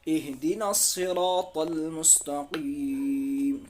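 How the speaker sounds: slow, measured tajweed recitation; Quran recitation. Shown as a demonstration. Teacher models the verse for students, slow recitation. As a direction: recite slowly, drawing out the long vowels. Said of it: "जब हम आयत करते हैं तो मुस्तकीम पढ़ते हैं".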